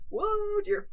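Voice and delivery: sudden high, loud gasp of surprise; surprised whoa. Real, not acted. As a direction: jump up high in shock. Sticker shock at strawberry price.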